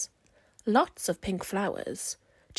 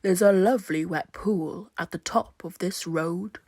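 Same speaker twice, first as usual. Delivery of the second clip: croaking toad; 3 semitones lower, 5 dB louder than usual. Acted. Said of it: "croaked a lumpy old toad".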